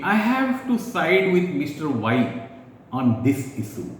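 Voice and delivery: slow, measured, courteous; slowly and politely taking a side in a discussion; polite, deliberate statement. Shown as a demonstration. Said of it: "mark the facial expression, the voice, tone".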